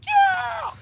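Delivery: very high screaming cheer from the stands; wild fan yell. Acted. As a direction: scream your head off for the fighter. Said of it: "I just go".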